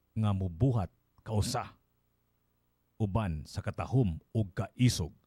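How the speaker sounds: measured Binisaya verse reading, pausing between phrases; solemn poetry reading with spaced phrases; poem recitation. Acted. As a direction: recite it line by line, deliberately. Reads the translated poem.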